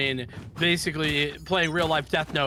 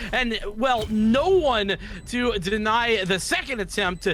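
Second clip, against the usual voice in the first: excited play-by-play; 4 semitones higher than usual. Acted. Live play-by-play continues.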